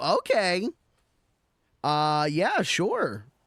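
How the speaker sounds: slow high sing-song character voice. Showing the raised character voice used on long streams: beans character voice, pitched up. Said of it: "having to put my voice up a little bit and go".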